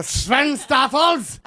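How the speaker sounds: slow, savoring each syllable; drawn out. Acted. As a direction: stretch the name out slowly. Savouring a funny name.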